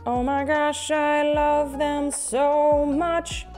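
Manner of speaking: high, slow, squealing adoration; gushing. Real, not acted. Gushing over finished plush.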